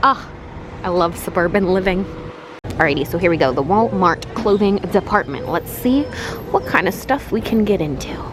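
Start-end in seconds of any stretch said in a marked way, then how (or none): 2.6-8.3 talking through a face mask; muffled voice behind a mask. Real, not acted. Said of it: "if I sound muffled, it's because of the mask".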